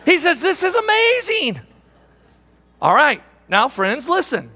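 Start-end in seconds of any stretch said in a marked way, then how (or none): 0.0-1.6 excited believer. Retold or imitated. Excited young believer, raised voice.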